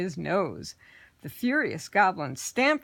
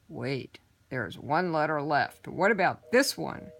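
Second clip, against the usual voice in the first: lightly voiced sly goblin; 3 semitones lower than usual. Horned goblin asks.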